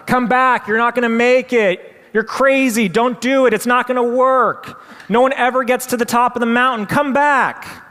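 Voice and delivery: very high, loud frantic yelling. Retold or imitated. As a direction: scream them back down the mountain. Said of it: "the screams get louder".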